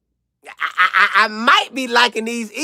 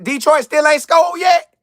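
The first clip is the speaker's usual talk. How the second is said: excited disbelief; 8 semitones higher, 3 dB louder than usual. Real, not acted. Amazed at Browns defense.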